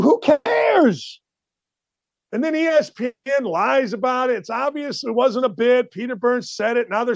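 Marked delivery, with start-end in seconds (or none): 0.0-1.2 exasperated shout. Real, not acted. Host scoffing at the ex-player's outrage, shouted. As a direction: throw it away at the top of your voice. Host dismisses the complaint loudly.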